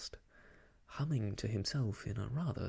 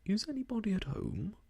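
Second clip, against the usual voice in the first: called out; 8 semitones higher than usual. Acted. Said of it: "and called out".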